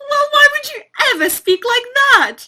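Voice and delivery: high, loud, fast and laughing; laughing disbelief. Real, not acted. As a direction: ask it through a laugh. Laughing at his teacher voice.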